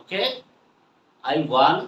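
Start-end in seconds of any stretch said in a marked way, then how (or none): 1.3-1.8 "I want" ending on the N; dropped T. Shown as a demonstration. Teacher repeats "I want" for learners, T dropped. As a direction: say "want" with no final T. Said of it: "কি বলবো?".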